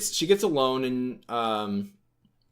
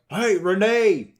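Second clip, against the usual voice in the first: high, drawn-out holler for someone; mock yell from away from the receiver; yelling off the phone; 8 semitones higher, 8 dB louder, slower than usual. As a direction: call out loudly to get her attention. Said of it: "yelling from, like, off the phone".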